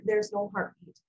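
low, subdued imitation of a doctor breaking news; retold doctor's sympathy, pitched low; feigned sincerity. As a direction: deliver it low and even, like a practised doctor. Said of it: "he's trying to feign sincerity".

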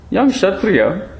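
put-on high, frail old sage voice; thin ancient voice, gently chiding; frail old monkey.

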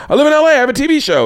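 high, loud mock-gushing yell; re-enacted over-excited announcement; excited bragging reply. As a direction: blurt it out high-pitched and thrilled. Acts out his own excited reply.

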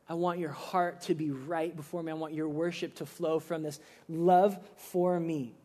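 gentle, softened voice of Jesus; quietly heartfelt; tender divine appeal. Acted. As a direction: speak low and earnest, as a loving plea. Voicing Jesus speaking tenderly.

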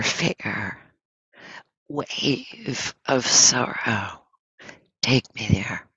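measured poem reading, pausing after each line. Real, not acted. Teacher reads a Langston Hughes poem to meditators, measured. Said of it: "I want to read the little poem".

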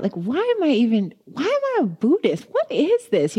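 lightly acted crisis of faith; rising doubt. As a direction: pitch up in disbelief. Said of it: "I started to lose the faith".

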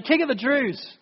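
a mocking jeer at a prisoner king. Soldiers jeering at the beaten prisoner, mocking. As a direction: sneer out the royal title in mild mockery. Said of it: "they're mocking him throughout".

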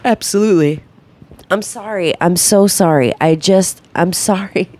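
yawning through the words. Real, not acted. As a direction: talk mid-yawn. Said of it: "I keep yawning and he gets so mad".

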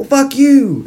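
high, hammed-up indignant retort; mock angry comeback. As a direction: return the insult in a high pretend-furious voice. Acted quarrel, insult thrown back.

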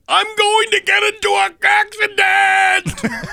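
drawn-out, high-pitched panicked yell, re-enacted. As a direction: yell it slowly and loud, way up high, as if the car is spinning. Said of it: "and I was yelling".

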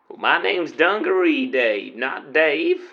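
put-on cowboy accent. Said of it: "interesting accent you've got there".

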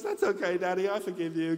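a hint of a gracious little daughter; daughter's voice. Daughter forgives her father after his apology, lightly voiced girl.

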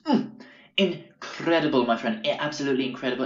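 mock a customer marveling at the food; imitated impressed hippie.

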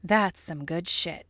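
slow, talking through a mouthful; mouth full. Acted. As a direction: say it chewing cake. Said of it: "her mouth full".

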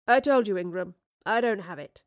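annoyed debtor. Acted. Woodliffe annoyed.

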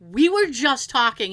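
firm retold denial at normal speed; insistent. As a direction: insist on your innocence. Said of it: "I just got really insistent".

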